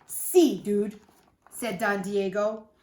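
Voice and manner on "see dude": excited. A narrator's reading. Don Diego voiced.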